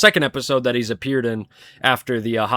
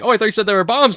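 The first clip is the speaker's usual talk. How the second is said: higher-pitched cartoon impression; raised mock-questioning character voice; Squidward; 8 semitones higher, 4 dB louder, much faster than usual. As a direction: imitate a startled cartoon customer. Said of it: "then Squidward's like".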